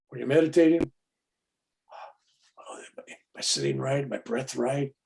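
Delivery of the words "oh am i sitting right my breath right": fretful whisper. Retold or imitated. Mimicking a fretful meditator.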